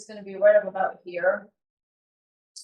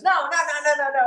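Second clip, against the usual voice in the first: agitated, higher-pitched string of objections; retold exasperation, pitched up; upset; 6 semitones higher, faster than usual. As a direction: imitate a director getting worked up. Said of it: "he gets all upset".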